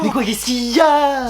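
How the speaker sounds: annoyed shout. Acted. Mom answering shouted call.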